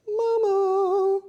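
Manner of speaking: high sing-song call to the cat. Real, not acted. Calling the cat in baby talk.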